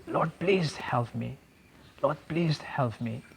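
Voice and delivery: soft, slow plea to the Lord; quiet slow prayer. Retold or imitated. Retelling his prayer during the bronchoscopy, soft and slow. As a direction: murmur the plea slowly, half under the breath.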